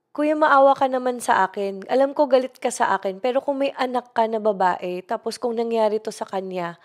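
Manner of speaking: frightened pleading. Retold or imitated. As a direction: plead like a scared girl stranded. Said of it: "takot na takot din ako". (takot na pagmamakaawa sa drayber)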